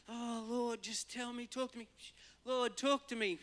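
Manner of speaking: high, pleading mock prayer. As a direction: beg the Lord theatrically.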